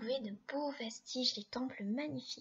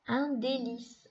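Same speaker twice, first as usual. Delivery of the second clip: slow syllable reading; 4 dB louder, slower than usual. Shown as a demonstration. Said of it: "on dit le mot ensemble".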